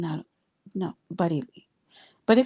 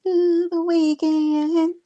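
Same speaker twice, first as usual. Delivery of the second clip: high, slow, loud celebratory toast; drawn out cheer up high; 9 semitones higher, 4 dB louder, much slower than usual. Real, not acted. Cheering the weekend to her viewers.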